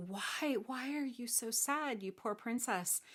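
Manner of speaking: acted soft concern; gentle pity. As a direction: ask tenderly, as to a sad child. Saint George pities the princess.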